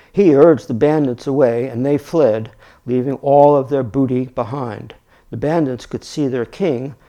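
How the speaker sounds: steady, projected storybook reading; story narration. A narrator's reading. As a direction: read the tale out clearly and emphatically. Reads the story aloud.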